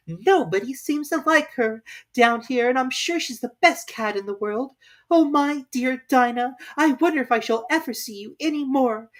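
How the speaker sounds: near tears; tearful. Acted. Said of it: "began to cry again".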